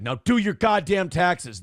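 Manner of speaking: mild mock yell, slow and firm; retold yell. Dad ordering Nick to do his taxes, mildly mock-yelled. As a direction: imitate a father scolding, drawn out. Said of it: "he yelled at Nick".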